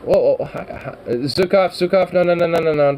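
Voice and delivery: loud, urgent calls to the cat; sharp loud warning to a pouncing cat; calling out. Real, not acted. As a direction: raise your voice to stop the cat. Stopping cat Zukov from pouncing.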